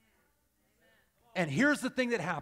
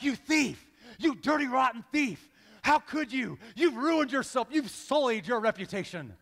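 hammed-up accusing father, higher pitch; mock outrage; 3 semitones higher, 3 dB louder than usual. Father to son caught stealing a Snickers, mock outrage. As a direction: scold in mock horror, pitched up.

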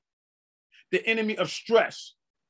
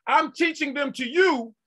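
voice of God; 7 semitones higher than usual. Acted. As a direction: proclaim as God himself. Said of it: "God says".

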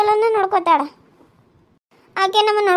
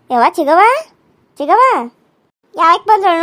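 calling out; 5 dB louder than usual. Acted. Calls out to aunt from afar.

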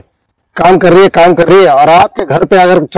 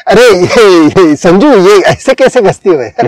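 gentle wife to maid. Retold or imitated. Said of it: "काम वाली बाई है".

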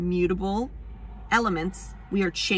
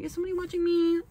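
high, fast, jittery whisper of worry; mock-paranoid high aside; paranoid squeak; 10 semitones higher, faster than usual. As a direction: squeak it like you're being watched.

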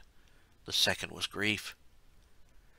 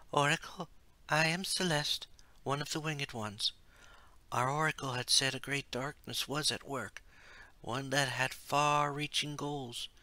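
higher, earnest winged maiden; young heroine voice; 6 semitones higher, 3 dB quieter than usual. A narrator's reading. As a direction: speak up respectfully to the oracle. Celeste addresses the oracle.

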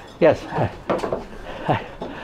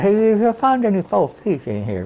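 higher, far-off voice calling out; sheepish asking; 5 semitones higher than usual. Retold or imitated. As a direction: call out hopefully across the bar, pitched up. Asking bar staff for teeth.

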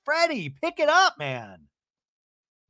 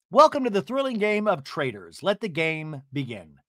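mock host voice. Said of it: "Thrilling is a choice".

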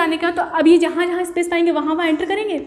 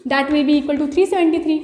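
slow dictation; much slower than usual. Shown as a demonstration. Dictating the result to students.

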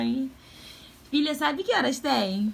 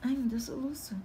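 hiccups; 7 semitones higher, 5 dB louder than usual. Real, not acted. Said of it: "tô com soluço".

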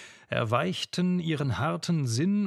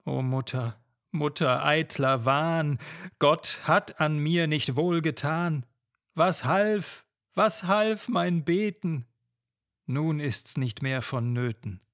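despairing lament. Acted. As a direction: cry out your loss to mother. Lenore rejects her mother's comfort.

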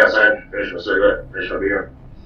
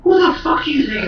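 high, loud imitated shriek of fury; mock furious sister yelling; sister's outburst; 4 dB louder than usual. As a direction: play the raging sister, up high. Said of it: "And her sister's like".

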